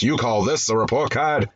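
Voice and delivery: hammed-up Italian immigrant father; lilting, overdone Italian accent; exaggerated Italian accent. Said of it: "with an exaggerated Italian accent".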